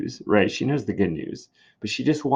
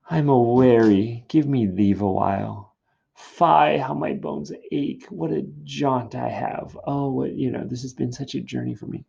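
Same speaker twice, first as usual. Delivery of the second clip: higher, aching complaint; weary nurse; 4 semitones higher than usual. Acted. Nurse stalling Juliet with her aches, wearily complaining. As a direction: lament a long tiring journey. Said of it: "So nurse says".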